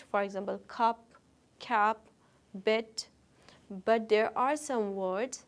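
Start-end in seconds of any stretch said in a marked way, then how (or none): 0.7-3.1 cup, cap, bit each said in one short beat; one stretch each. Shown as a demonstration. Teacher modelling cup, cap, bit as one-stretch words. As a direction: say cup, cap, bit crisply as single syllables. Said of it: "they can be spoken in one stretch".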